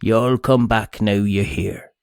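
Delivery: a hint of an American twang, tossed off; barely-there American accent as a joke. Shown as a demonstration. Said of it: "Do you want to hear my American accent?".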